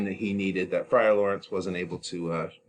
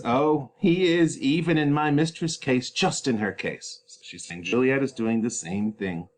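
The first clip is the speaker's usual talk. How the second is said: nurse lamenting; 6 semitones higher, 3 dB louder than usual. Acted.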